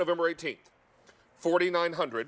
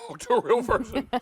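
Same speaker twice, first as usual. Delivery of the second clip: laughing through the words; 6 semitones higher, 5 dB louder than usual. Real, not acted. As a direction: say it with a laugh breaking in. Repeats plea, laughing.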